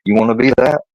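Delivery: retold angry question; angry challenge. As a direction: confront the kid with it. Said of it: "looking at me angrily".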